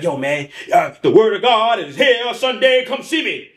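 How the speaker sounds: high, hyped church-ad voice; imitating the TV pastor. Pastor hyping his church on TV, high and eager.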